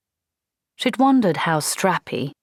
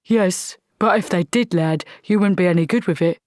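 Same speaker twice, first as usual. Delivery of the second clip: gruff sergeant; 2 semitones higher than usual. Acted. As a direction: bark it like an old army sergeant.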